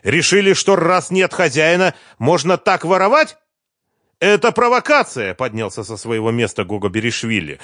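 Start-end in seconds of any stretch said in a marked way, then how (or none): 0.0-3.4 high, loud, indignant scolding; raised furious voice at the lawyer; angry rebuke. A narrator's reading. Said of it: "гневно заявил". 4.2-5.3 high, loud protest; indignant boss cry; outraged denial. A narrator's reading. Executive denies theft, outraged.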